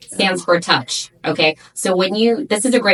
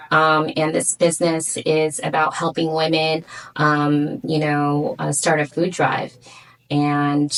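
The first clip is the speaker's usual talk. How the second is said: mock pitch. Shown as a demonstration. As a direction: plead sincerely for the money. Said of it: "I'm gonna do T M I with you".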